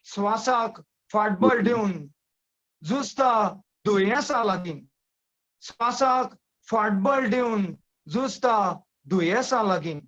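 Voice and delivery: measured Konkani verse, phrase by phrase; poem recitation. Acted. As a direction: recite the poem with pauses between short phrases.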